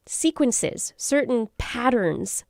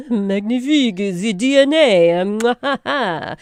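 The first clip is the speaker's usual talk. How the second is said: bad French accent; 3 semitones higher, 7 dB louder, slower than usual. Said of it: "my bad French accent".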